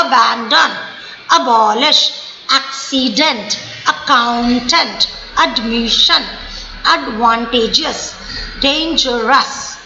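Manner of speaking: each word slow and broken into stressed syllables; teacher sounding out words beat by beat; three stressed beats. Shown as a demonstration. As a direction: lean on every syllable, low and measured. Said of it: "हमने तीन बार जोर डाला".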